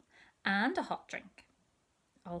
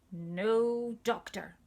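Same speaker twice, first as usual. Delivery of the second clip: slow, louder no doctor; 4 dB louder, much slower than usual. Acted. Little sister announcing her refusal, louder and slow. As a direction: say it out loud clearly. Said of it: "she said out loud".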